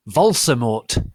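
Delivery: loud, slow announcement; dramatic reveal. Acted. Narrator revealing the villain, loud slow. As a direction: boom the name out.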